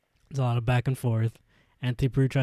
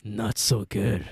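put-on drunk man; slower than usual. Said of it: "Drunk man".

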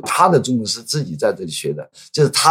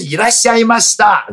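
high, louder honorific greeting; polite Japanese welcome; 11 semitones higher, 5 dB louder than usual. Shown as a demonstration. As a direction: greet like a shop clerk. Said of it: "不是 来了来了".

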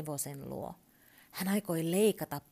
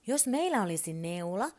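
excited; 4 semitones higher, 4 dB louder than usual. Acted. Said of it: "Turpo innostui".

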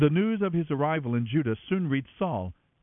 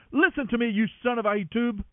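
shouted; 7 semitones higher, faster than usual. A narrator's reading. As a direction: roar it down at the priest. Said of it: "Saul shouted at him".

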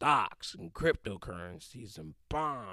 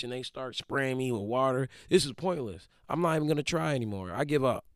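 mock exasperated complaining, slightly raised pitch; Martin Luther King throwing a fit; 3 semitones higher than usual. Imagined civil rights leader giving up on marches, mock exasperated fit. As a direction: grumble your way to giving up, half-hearted tantrum. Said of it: "Martin Luther King threw a fit".

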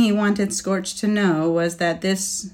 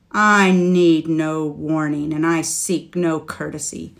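acid; 4 dB louder than usual. Acted. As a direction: answer with acid scorn. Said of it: "Scorch said acidly".

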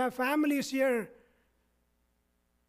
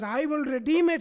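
emphatic retold vow, lightly raised; emphatic declaration; 3 semitones higher, 4 dB louder than usual. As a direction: repeat his declaration with some emphasis. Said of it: "he emphatically says".

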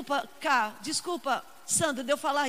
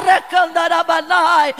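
speaking in tongues; 9 dB louder, slower than usual. Acted. Tongues between preached lines.

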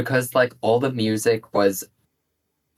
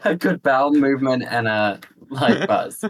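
laughing tagline. Shown as a demonstration. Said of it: "That's my tagline".

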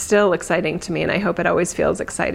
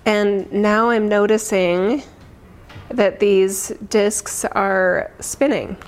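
guided meditation. Acted. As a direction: ease them gently into calm. Leads a meditation.

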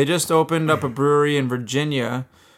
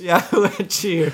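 catchphrase echo; 5 semitones higher than usual. Shown as a demonstration. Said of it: "so say it".

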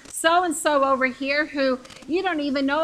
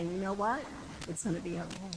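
soft, low comforting tone; gently reassure, dropping softer at the end; reassuring; 4 semitones lower, 7 dB quieter, faster than usual. Retold or imitated. Pastor to a discouraged believer, gently reassuring.

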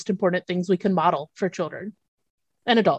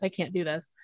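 mock sob; 4 semitones lower, 12 dB quieter than usual. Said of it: "sobbing 'cause she was like".

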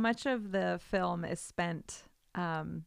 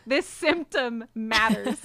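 laughing; 3 semitones higher, 4 dB louder, slower than usual. Retold or imitated. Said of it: "I'm like".

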